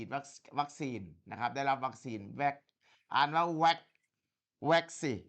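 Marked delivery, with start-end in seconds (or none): 4.7-5.2 teacher models "vaccine" for a student; pronunciation model. Shown as a demonstration. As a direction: say "vaccine" slowly, stress on vac.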